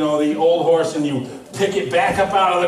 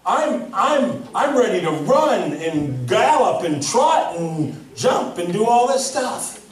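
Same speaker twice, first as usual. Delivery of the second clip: Mister Ed; 6 semitones higher, slower than usual. Pretend. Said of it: "if the horse could talk like Mister Ed".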